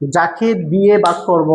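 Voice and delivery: "যাকে দিয়ে ভাগ করব" again slowly and evenly; slowed teacher repeat. Shown as a demonstration. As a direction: repeat it slowly to drive it home. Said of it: "আবার বলছি". (আবার ধীরে বলা)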